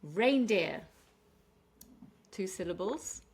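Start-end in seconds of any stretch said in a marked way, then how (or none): 0.0-0.8 "Reindeer" with a loud, stressed Rein. Shown as a demonstration. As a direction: hit REIN hard in "Reindeer". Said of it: "we're stressing on the rain".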